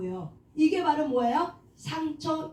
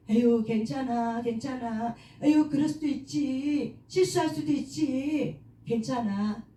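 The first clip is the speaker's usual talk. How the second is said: soothing self-talk; 2 semitones lower than usual. Shown as a demonstration. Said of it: "자기 이름을 불러가면서 그렇게 얘기한다는 거죠".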